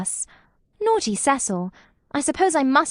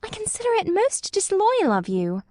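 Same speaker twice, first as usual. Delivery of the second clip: indignant scolding; 6 semitones higher than usual. A narrator's reading. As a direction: scold him, rising with offence. Lucy scolds Cecil.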